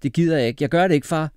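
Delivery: loud, high-pitched protest; indignant boy refusing; defiant refusal. A narrator's reading. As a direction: dig your heels in against father. Boy refuses father's singing plan.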